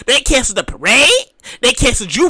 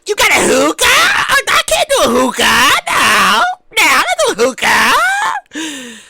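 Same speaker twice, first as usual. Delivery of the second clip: alarmed refusal; slower than usual. Pretend. Refusing a hookah offer.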